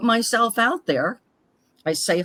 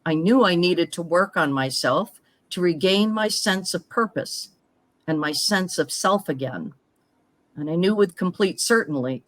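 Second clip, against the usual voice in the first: measured, scripted first-person storytelling; reading personal story aloud. Acted. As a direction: read your life story out in phrases, pausing between them. Reads prepared personal story aloud.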